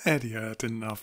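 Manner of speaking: words said through real laughter; laughing. Real, not acted. Viewer amused that Eddie had enough, laughing. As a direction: talk while still giggling.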